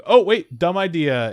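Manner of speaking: high, loud startled catch; mock sudden realization. The spirit stopping himself from catching her, startled. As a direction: yelp it like you just caught yourself. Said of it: "he's like".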